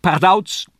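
high, loud jester's shout; Kasperl's call. A narrator's reading. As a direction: burst onto the stage with a cry. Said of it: "rief es". (lauter, hoher Kasperlruf)

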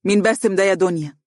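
a touch of indignation; mildly indignant mother confronting daughter. Acted. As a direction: demand an answer with mild outrage. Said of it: "وقالت بسخط".

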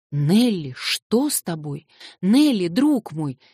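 loud, slow alarmed call; involuntary cry. Acted. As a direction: call her name out in alarm. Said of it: "вскрикнул я невольно".

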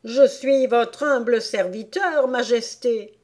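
abject, whining plea; moaning. Acted. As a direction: moan pleadingly to the sovereign. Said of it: "gémit-il".

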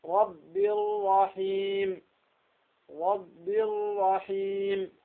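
الرحيم with the ra merged and untrilled; slow, steady ra in رب الرحيم; ra without trill. Shown as a demonstration. Teacher showing a ra that does not tremble. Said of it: "لا ترتعد الراء".

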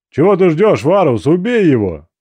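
loud, high, impatient shout; urgent angry demand. A narrator's reading. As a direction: yell at him to finish it. Comrade urging him to kill.

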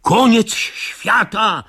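slow, high mock roar. Narrator fleeing the monster, slow high panicked cry. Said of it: "ryknął ja".

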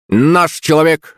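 high, drawn-out parrot squawk; screeching parrot. A narrator's reading. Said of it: "заверещал Рэмбо с ближайшего дерева". (попугай верещит)

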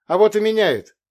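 put-on loud, high girl's retort; defiant retort. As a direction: snap back that it does matter. Не согласилась со мной Евдокия.

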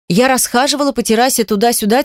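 ordinary talk

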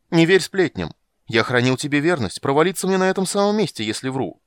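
high, loud swearing of loyalty; loud protest. Acted. Poet yelling his fidelity up to the balcony. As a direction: protest innocence at full voice.

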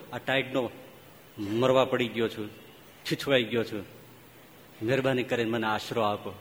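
a lightly voiced snake, low and feeble; weak dying snake. A lightly voiced freezing snake begging the man for shelter. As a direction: plead softly like a frozen snake. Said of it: "એ સાપ જ બોલતો હતો".

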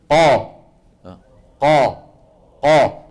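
قا pressed up to the palate, full and resonant; teacher drilling a heavy قا; heavy qaf demo. Shown as a demonstration. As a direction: push قا up against the roof of the mouth. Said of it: "لما بتنطق القاف المفتوحة مثلًا قا".

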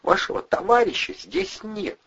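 high, breathless refusal; nurse's whispery brush-off. A narrator's reading. Nurse telling Andrei friend is gone, high. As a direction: cut him off.

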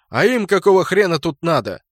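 indignant shout. A narrator's reading. Clan leader reacts to rival clans' presence, shouting. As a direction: demand to know, voice high and loud. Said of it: "Корн даже закричал".

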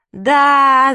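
high, loud sobbing cry; sobbing wail. Acted. Girl admits it to mum, wailing. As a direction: dissolve into a wailing yes. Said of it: "зашлась я в плаче".

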